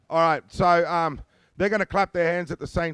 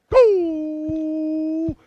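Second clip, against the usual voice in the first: shout; 13 semitones higher, 7 dB louder than usual. Real, not acted. Dance leader calling out.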